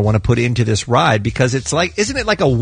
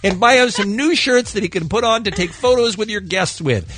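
higher, mock-pleading email read; put-on reading voice; 5 semitones higher than usual. Host reading a listener's complaint to Lisa, put-on voice. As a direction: read it out with exaggerated exasperation. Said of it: "Why am I talking like this?".

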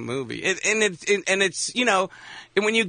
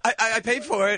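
put-on stammering defensive teen; 7 semitones higher than usual.

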